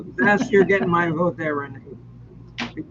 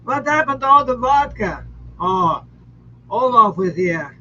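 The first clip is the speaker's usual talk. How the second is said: mock Russian accent; 4 semitones higher than usual. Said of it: "you use my Russian accent".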